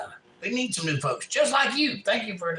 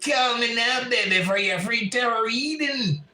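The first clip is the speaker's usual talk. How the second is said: a light, badly done Jamaican psychic hotline voice; hammed-up Jamaican psychic ad, just a touch higher; Miss Cleo impression; 3 semitones higher than usual. Streamer plays a TV psychic for chat in mock Jamaican accent. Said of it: "It's terrible".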